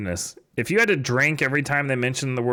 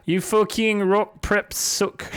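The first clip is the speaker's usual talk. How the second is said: high, slow put-on insult; ranting fanfiction author; 9 semitones higher, slower than usual. Same author voice.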